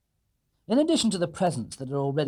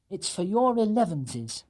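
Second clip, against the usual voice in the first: higher, slow kindly bear; 6 semitones higher, slower than usual. Acted. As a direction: explain the gift. Paddington voiced.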